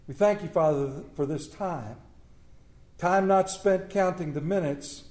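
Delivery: earnest spoken prayer. Acted. Pastor leads the congregation in prayer, earnest. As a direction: lead the room in prayer.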